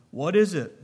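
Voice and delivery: impatiently. Acted. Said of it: "desk asked impatiently".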